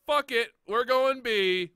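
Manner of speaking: imitating a player's reckless battle cry, loud and high; mocking, drawn-out holler; mock reckless yell. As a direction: yell it like a gung-ho teammate throwing caution away. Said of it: "and you're like".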